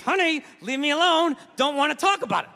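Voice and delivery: words pushed through clenched teeth; through gritted teeth. Retold or imitated. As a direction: speak with teeth held together, tense. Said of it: "Talking through my teeth".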